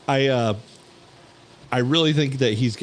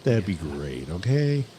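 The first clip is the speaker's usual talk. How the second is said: Bill Lumbergh; 3 semitones lower, slower than usual. Retold or imitated. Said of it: "Bill Lumbergh style".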